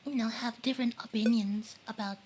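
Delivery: eating while talking; talking through a mouthful; mouth full. Real, not acted. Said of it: "The eating is making the stream lag".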